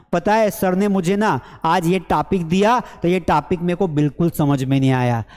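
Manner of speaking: टॉपिक said as "taapik"; mispronounced topic. Retold or imitated. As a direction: imitate a learner saying टॉपिक with open aa. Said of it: "ये टॉपिक नहीं है". (टॉपिक को "टापिक" बोलने की नकल)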